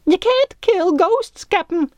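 very high, terrified squeak; squeaking like a girl. A narrator's reading. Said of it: "squeaked like a girl".

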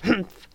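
short scornful huff; derogatory humph. A narrator's reading. Fairy seeing lipstick message, derogatory humph. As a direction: huff in disdain. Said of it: "made a derogatory noise".

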